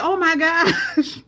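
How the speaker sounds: slow, drawn-out disbelief; stunned. Retold or imitated. Reacting to viewers about the clip, drawn out. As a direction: stretch it out in shock. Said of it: "I was just like".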